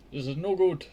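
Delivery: a touch of hammed-up anger; mock angry mother. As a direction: scold the son over the beans. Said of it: "cried his mother angrily".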